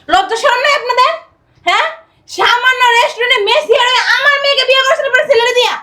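indignant public scolding; outraged, insistent questioning; loud scolding. Acted. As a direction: shame him in front of everyone. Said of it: "আস্তে".

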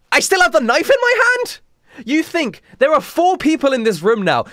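high-pitched, loud disbelief; incredulous outburst. Real, not acted. Reader mocks the absurd plot, incredulous. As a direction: exclaim it in shrieking disbelief.

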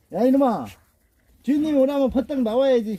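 high, loud scolding of the dog; scolding shout. Real, not acted. Owner yells at his lazy dog to come out, loud scolding. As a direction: call the lazy dog out sharply.

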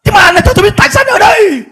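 high, loud urgent question; Daniel pressing the damned pastor, shouting; urgent demand. Retold or imitated. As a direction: shout the question over the flames. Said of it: "Mục sư Daniel nói rằng là".

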